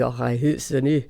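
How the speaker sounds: lightly put-on Scottish accent; mock Scottish accent. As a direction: briefly imitate a Scottish schoolkid's accent. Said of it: "They all had Scottish accents".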